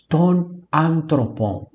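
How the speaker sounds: drawn-out Greek words with a halting gap; slow stuttering Greek. Acted. Teacher imitating a slow-speaking stuttering Greek, drawn-out. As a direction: say "ton anthropon" very slowly, word by word. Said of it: "um grego que fala bem devagar, ele é gago".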